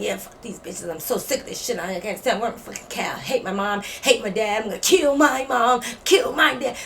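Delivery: muttered angry rant. Retold or imitated. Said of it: "you can hear somebody mumbling something".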